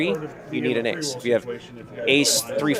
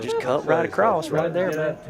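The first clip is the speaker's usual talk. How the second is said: mock Southern accent; 3 semitones higher than usual. Commentator mimicking the Texan player, Southern accent. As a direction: imitate a folksy Southern talker. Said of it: "I love the Southern accent".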